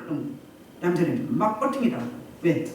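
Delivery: ordinary talk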